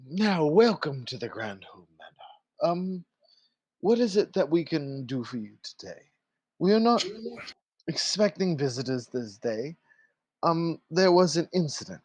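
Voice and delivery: a hint of a formal manor servant greeting guests; polite butler at the door, lightly done; lightly voiced servant. Servant greeting visitors at the manor door, lightly voiced and formal.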